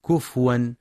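كفوا with a silent, unvowelled fa; wrong reading with sukun. Shown as a demonstration. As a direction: say كفوا without a vowel on the fa. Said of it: "فلا يقرأ بسكون الفاء". (كفوا بسكون الفاء، قراءة خاطئة)

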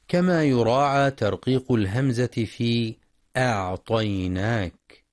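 ordinary talk, nothing marked

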